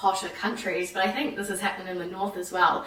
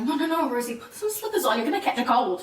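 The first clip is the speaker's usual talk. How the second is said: fussing French host; 4 semitones higher than usual. Retold or imitated. French host scolding barefoot guest.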